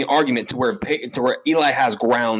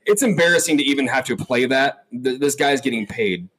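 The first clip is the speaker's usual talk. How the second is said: mouth full of peanut butter. Real, not acted. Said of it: "talking with peanut butter in my mouth".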